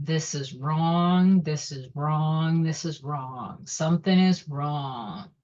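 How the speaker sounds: slow, low, fading dread; slow foreboding. Retold or imitated. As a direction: let the dread sink in, slow and heavy. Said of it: "I felt".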